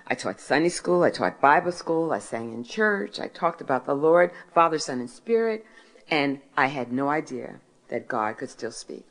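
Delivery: ordinary talk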